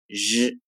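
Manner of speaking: "日" as the curled-tongue Chinese syllable; "日" retroflex, tongue curled back; Mandarin ri sound. Shown as a demonstration. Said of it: "也不要发成日子的".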